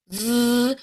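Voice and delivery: "V" as a held, buzzing consonant; voiced V sound. Shown as a demonstration. Coach shows learners the V, held with throat vibration. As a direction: buzz "V" with teeth on lip. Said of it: "We want a voiced vibration here".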